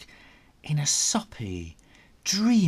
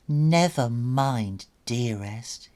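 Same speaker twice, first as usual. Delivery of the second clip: cooing. Acted. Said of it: "he cooed".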